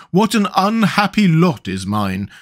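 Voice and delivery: high, loud woeful pumpkin man; plaintive, high-pitched character complaint; moaning lament. A narrator's reading. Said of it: "moaned Jack".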